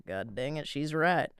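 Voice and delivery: put-on lightly drawn Southern country accent; a hint of country accent. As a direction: mutter it like a grumbling country husband. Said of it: "I did that in a country accent".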